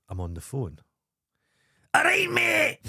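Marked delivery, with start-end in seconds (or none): 1.9-2.8 high calling stranger. Retold or imitated. Squeaky Shoes hailing him across the street, high squeaky call.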